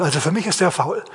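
ordinary talk, nothing marked

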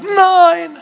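shrill-high, loud scream of no; a mother screams to save her child. Retold or imitated. Desperate mother screams at the guard, very high and loud. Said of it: "kommt eine Frau nach vorne und schreit".

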